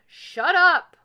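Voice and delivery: very high, very loud mouse snarl. A narrator's reading. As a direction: snarl it loudly as a tiny mouse. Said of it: "Mouse snarled".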